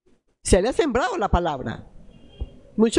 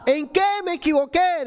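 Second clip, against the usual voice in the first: higher-pitched anguished question, mildly raised; mock yell, pitched up; retold mother's cry; 5 semitones higher than usual. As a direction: imitate a mother crying out, without full volume. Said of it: "mi madre me gritaba".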